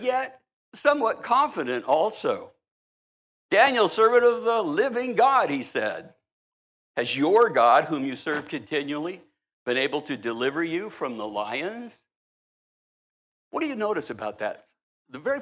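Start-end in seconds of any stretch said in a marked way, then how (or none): 3.5-12.0 lamenting call. Acted. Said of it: "It says in a lamenting voice".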